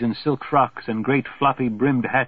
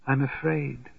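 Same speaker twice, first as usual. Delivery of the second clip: whispered; 2 semitones higher, 5 dB quieter than usual. Acted. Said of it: "she whispers".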